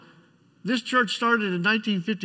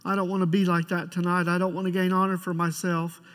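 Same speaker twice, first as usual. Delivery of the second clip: prayer; 3 semitones lower than usual. Acted. Pastor leads opening prayer.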